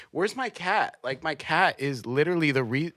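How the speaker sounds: lightly voiced British complaint; mad British person. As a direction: imitate a British person getting worked up. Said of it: "British people when they get mad".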